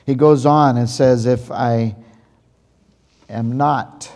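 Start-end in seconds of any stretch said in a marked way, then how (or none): 1.3-4.1 pause, then set "not" firmly apart; stress on not. Shown as a demonstration. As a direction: give "not" its own weight after a pause. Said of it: "emphasize the word not".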